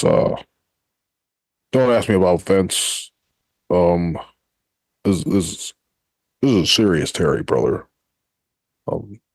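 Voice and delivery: understated serious wrestler persona; serious court voice. Acted. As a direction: play it straight and earnest, brother. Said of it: "This is my court voice".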